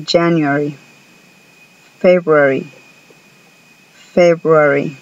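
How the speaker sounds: February with a clear BR, no first R; careful teacher model; model pronunciation. Shown as a demonstration. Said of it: "escuchen cómo se pronuncia February".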